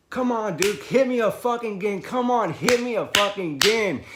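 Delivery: very high, loud yelling; wound-up shouted taunt; frenzied dare. Retold or imitated. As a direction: goad him on at full force. Retold goading of the opponent.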